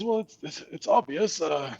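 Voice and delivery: high, rambling forgetful skeleton. Acted. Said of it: "He says".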